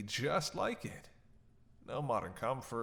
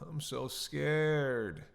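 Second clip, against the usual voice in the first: mock fear; 4 semitones higher, 4 dB louder, much slower than usual. Sarcastic vampire mocking captive.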